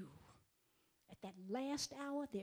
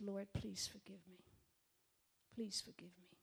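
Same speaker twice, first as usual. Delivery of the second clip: tearful whispered plea; 5 dB quieter than usual. Retold or imitated. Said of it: "I cried".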